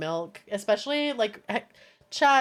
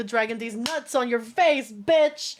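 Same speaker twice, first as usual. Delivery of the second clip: mock-aggressive jab, punched last word; slower than usual. Streamer taunting chat about the dragon, mock aggression. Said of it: "That was very aggressive".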